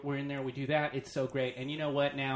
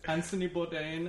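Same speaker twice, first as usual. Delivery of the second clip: higher mock French accent; 4 semitones higher than usual. Backpacker naming who told them of the place, mock French accent. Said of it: "it's the one accent we can do".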